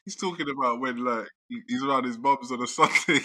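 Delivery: telling it through real laughter; fighting back laughter. Real, not acted. Retelling a film scene to friends, fighting back laughter. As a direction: laugh breaking into the story. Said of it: "why am I laughing".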